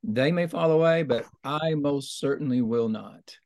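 "I" stressed in a quoted vow; emphatic. Retold or imitated. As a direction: put firm weight on "I" in "I most certainly will not". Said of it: "he was being very emphatic, saying".

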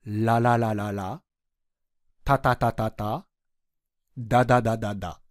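quietly rerun it to show the tongue; syllable drill demo. Shown as a demonstration. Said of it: "三つとも舌が同じような動きを". (舌の動きを確かめる静かな練習)

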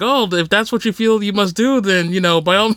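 lightly imitated polite Canadian accent; bad Canadian accent. Canadian driver answering a threat to fight, mock Canadian accent. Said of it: "I'm gonna do a really bad Canadian accent".

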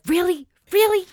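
incredulous. Pretend. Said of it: "be like".

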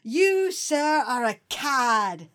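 slow mock British insult; clipped British. Quatermass confronting Breen, slow mock British insult. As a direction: pronounce it like an offended Englishman. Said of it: "Quatermass confronts him".

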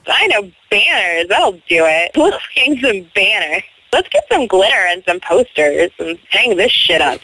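lightly voiced sideline soccer mom; hint of a peppy team mom.

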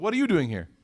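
light, offhand greeting to a friend; casual friendly greeting. Acted. Bumping into a friend at Qahwa House, casual greeting. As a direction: toss it off casually, as if pleasantly surprised. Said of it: "when you see your friend".

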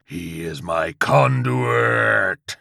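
slow, loud demonic howl; howling demon Chihuahua. A narrator's reading. Chihuahua protects its conduit, slow demonic howl. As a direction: stretch the words into a howl. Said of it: "the Chihuahua howled".

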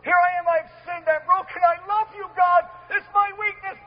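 lightly voiced earnest prayer of David; bold lover's prayer. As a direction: pour your heart out to a Father. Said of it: "would walk boldly".

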